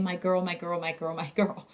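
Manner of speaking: imitated recurrent utterance. Therapist imitating her patient's new recurrent utterance, softly looping. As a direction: repeat it quietly like a stuck loop. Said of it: "his recurrent utterance, instead of".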